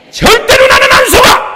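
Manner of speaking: 안 hit loud and high; shouted with 안 strongest; stress on 안. Acted. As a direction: punch 안 in the shout. Repeated defiance, shifting stress.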